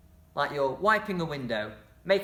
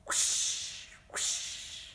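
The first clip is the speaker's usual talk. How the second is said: breathy airy whoosh of a wave; whispered whoosh; 8 dB quieter than usual. Shown as a demonstration. Teacher shows the class the sea action, whooshing. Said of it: "you can make a little whoosh noise".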